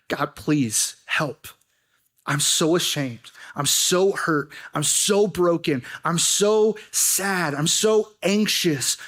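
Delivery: slow, pleading confession to God; mild broken-hearted prayer; humble prayer. Pretend. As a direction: lay each hurt down slowly before God. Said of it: "come to God and to say".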